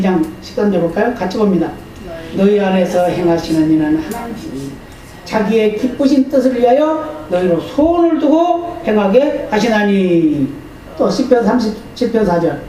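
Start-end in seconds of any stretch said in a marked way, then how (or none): 2.3-10.5 scripture reading. Acted. Reads scripture aloud.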